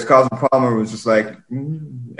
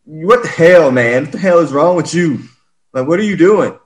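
mock angry yell; 5 semitones higher than usual. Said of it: "No, he was like".

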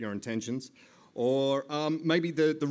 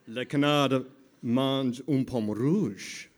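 French phrase; 3 dB louder, slower than usual. Shown as a demonstration. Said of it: "I can say".

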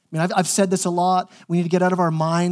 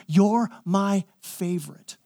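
tender; 4 dB quieter, slower than usual. Pretend. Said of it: "God looking to you saying".

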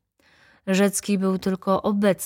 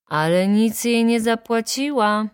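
raised, higher-pitched interjection; booming heckle; 5 semitones higher, 4 dB louder than usual. A narrator's reading. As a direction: call it out from the back of the courtroom. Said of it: "huknął z końca sali Wirski". (donośny okrzyk z końca sali)

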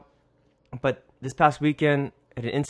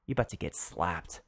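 under-breath threat; 4 semitones lower than usual. Retold or imitated. Inner annoyed thought.

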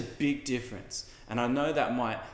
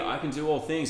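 louder, higher mock-enthusiastic reading; me-emphasis hype; 4 semitones higher, 4 dB louder than usual. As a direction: claim the verse like a pumped-up motto. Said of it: "We read that with a me emphasis".

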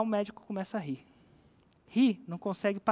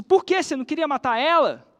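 much higher, louder startled question; surprised doctor; 4 semitones higher, 7 dB louder than usual. Retold or imitated. Doctor asks friend why she stopped, startled. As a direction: jump up in disbelief.

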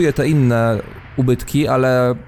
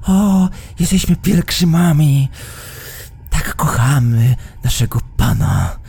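mocking pious pilgrims; 4 semitones higher than usual. Guardian mocks the pilgrims' words.

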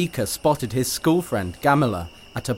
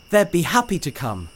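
panting; 6 semitones higher than usual. Acted. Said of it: "Adika panted".

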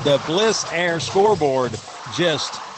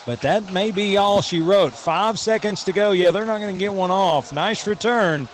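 excited; 3 semitones higher than usual. Real, not acted. Live kickoff return call.

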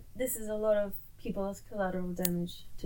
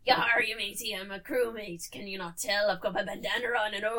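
put-on pirate accent. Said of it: "what accent is that".

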